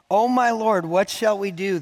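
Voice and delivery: a frightened servant calls to his master; alarmed servant. Acted. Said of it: "the servant asked".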